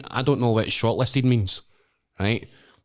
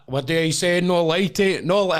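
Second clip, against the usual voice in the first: high, loud catchphrase prompt; Paddy McGuinness; 7 semitones higher, 5 dB louder than usual. Retold or imitated. TV host prompting contestants with his catchphrase, high and loud. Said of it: "And he's like".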